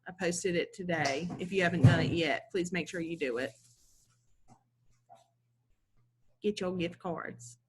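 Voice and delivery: spitting while talking; talking funny. Real, not acted. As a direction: numb mouth, words come out thick. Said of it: "Am I talking funny? Do I sound funny? I'm spitting all over the place".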